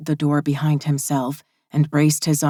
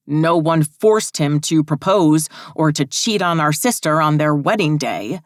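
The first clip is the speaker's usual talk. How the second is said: angry; 4 dB louder than usual. Acted. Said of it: "took his rage out".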